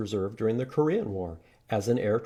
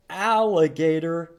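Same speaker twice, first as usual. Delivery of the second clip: excited reveal; 6 semitones higher, 7 dB louder, slower than usual. Acted. Big reveal of the creature.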